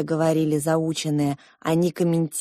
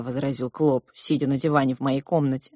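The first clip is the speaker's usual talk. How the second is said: ordinary delivery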